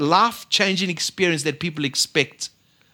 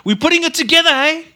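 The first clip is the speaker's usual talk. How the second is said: tearful joy; 8 semitones higher, 4 dB louder than usual. Retold or imitated. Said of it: "tears in her eyes".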